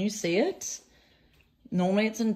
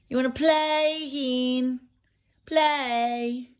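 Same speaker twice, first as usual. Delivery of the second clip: high coaxing pet voice; cat play voice; 7 semitones higher, much slower than usual. Real, not acted. Owner inviting her cat to play, high coaxing voice. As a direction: coax the cat to play, high and sing-song. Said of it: "I always say it in that voice".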